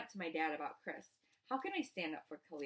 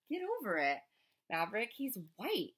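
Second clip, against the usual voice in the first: muffled shout; 3 semitones higher, 4 dB louder than usual. Retold or imitated. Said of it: "Mama shouts on the patio".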